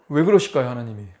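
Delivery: ordinary talk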